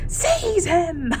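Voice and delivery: high, loud command; dark lord ordering his servant; screamed order. A narrator's reading. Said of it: "Voldemort screamed".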